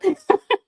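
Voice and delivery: a quick high giggle; short high laugh. Real, not acted. Vlogger laughing after asking viewers, short high laugh.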